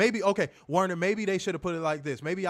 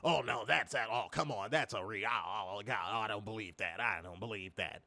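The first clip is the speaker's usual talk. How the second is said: offended fan; 5 semitones lower, 5 dB quieter than usual. Retold or imitated. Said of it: "you might get offended and be like".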